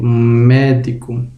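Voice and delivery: slow "médico" with a long first "mé"; "médico" as a careful stress example; stress on third-last syllable. Shown as a demonstration. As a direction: lean on the opening of "médico". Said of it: "a antepenúltima sílaba é a sílaba tônica".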